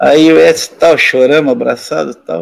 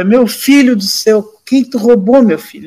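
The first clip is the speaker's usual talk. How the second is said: alarmed parent; 8 semitones higher than usual. Retold or imitated. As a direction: act out a parent pleading for an explanation. Parent's alarmed accusation, acted.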